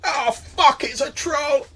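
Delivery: high, loud goblin panic; alarmed goblin cry. Acted. Goblin spotting what he takes for a troll, alarmed.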